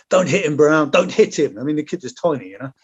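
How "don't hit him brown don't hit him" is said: raised, higher mock yell of an urgent officer; retold shout. Officer yelling at soldier not to hit kid, mock shout. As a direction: bark the order like a panicked officer, half-acted.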